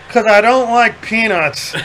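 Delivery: slow, a hint of a drunk reply; mild drunk voice talking back to airport security; drunk friend. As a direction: lightly play it hammered and matter-of-fact. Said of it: "All hammered".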